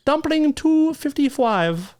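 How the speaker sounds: high, slow mock Asian accent; hammed-up Asian accent impression. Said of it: "What accent was that?".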